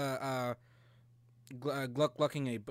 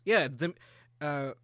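normal talking voice

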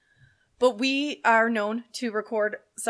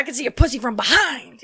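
loud, raised, hammed-up holler; Samuel L. Jackson-like; 3 semitones higher, 7 dB louder than usual. Host heckling on set, mock loud outburst. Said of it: "that was like Samuel L".

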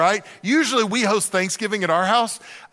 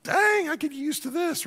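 contented laugh; 8 semitones higher, 5 dB quieter than usual. Retold or imitated. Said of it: "It's like".

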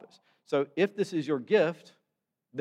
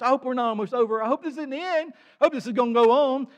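mock eager moviegoer; 12 semitones higher, 9 dB louder, faster than usual. Moviegoer hoping film won't end.

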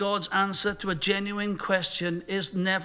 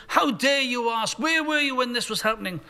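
thundering answer; 5 semitones higher than usual. Shown as a demonstration. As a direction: roar it down at the one asking. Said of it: "a thundering answer, like the Wizard of Oz".

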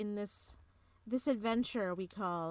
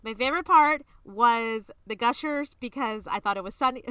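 speed review; 3 semitones higher, 10 dB louder than usual. Pretend. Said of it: "You have to speak as fast as you can".

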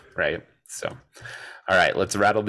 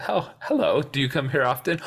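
Skylar; 7 semitones higher than usual. Retold or imitated. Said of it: "she goes".

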